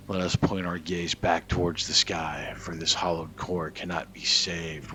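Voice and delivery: grave, dramatic reading of lore; ominous lore reading. Acted. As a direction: read it like an old prophecy. Reads in-game lore text aloud.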